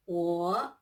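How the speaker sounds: 我 said low, dipping third tone. Shown as a demonstration. Teacher models 我 with a low dipping tone for students. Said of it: "One more time".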